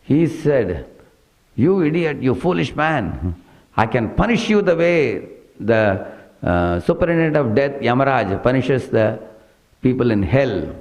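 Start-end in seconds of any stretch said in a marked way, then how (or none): 1.6-10.7 raised, slowed scolding from the king; angry king shouting. Retold or imitated. King scolds the bearer who shakes the palanquin, angry raised voice. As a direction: berate him like an outraged monarch. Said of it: "He shouted".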